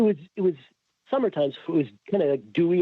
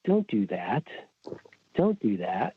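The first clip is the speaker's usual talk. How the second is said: wife warning; 6 semitones lower, slower than usual. Retold or imitated. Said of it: "my wife says to me".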